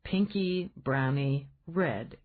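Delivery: slow, amused echo of her words; mock-serious slow repeat, grinning; teasing repeat. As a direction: savour each word as a tease. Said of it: "he repeated, grinning".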